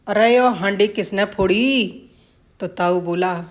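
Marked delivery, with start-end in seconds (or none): 0.1-2.0 a touch of cocky swagger in the Englishman's line. Acted. Englishman proudly tries his Haryanvi, lightly cocky. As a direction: say it with mild self-assured pride. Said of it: "अंग्रेज बड़ी अकड़ में बोला".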